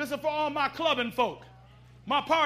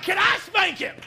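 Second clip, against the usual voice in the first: laughing ask; 4 semitones higher, 3 dB louder than usual. Retold or imitated. Preacher's own reaction retold.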